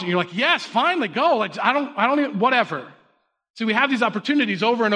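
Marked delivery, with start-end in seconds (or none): 0.4-2.9 mock exasperated parent, pitched up at first; exasperated giving-in. Worn-down parent gives in to kids' begging, mock exasperated. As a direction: give in, fed up, then wave it off.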